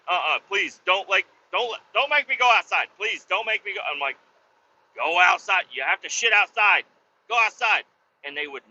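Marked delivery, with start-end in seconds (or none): 0.1-3.8 higher-pitched pleading for the scared dogs. Retold or imitated. Dogs begging their owner not to send them outside, pleading. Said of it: "They were like". 5.0-7.8 mildly raised, insistent command; exasperated ordering. Retold or imitated. Owner telling scared dogs to go outside, exasperated.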